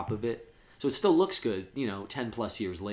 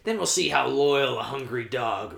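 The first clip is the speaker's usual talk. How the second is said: taunting villain voice, sinking into a rasping whisper at the end; Joker imitation; 3 semitones higher, 3 dB louder than usual. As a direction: play a menacing villain toying with his victim. Acting out Joker threatening the Chechen.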